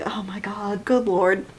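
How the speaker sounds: breathy whispered disbelief; whispered Oh my God; exasperated whisper. Retold or imitated. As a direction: whisper it like you're scandalized. Speaker's own retold reaction.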